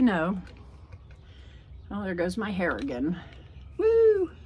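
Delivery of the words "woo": high sudden yelp; bright surprised whoop; startled woo. Real, not acted. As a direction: yelp as the wind hits. Hair blowing in the wind.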